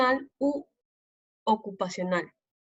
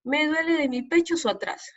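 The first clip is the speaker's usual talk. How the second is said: Amazonian Spanish; 5 semitones higher than usual. Shown as a demonstration. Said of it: "El castellano amazónico, por ejemplo, dice".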